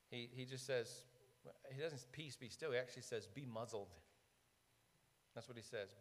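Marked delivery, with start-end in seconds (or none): 2.1-2.7 quiet command. Retold or imitated. Jesus commands the storm. 3.3-3.9 quiet command. Retold or imitated. Jesus commands the storm.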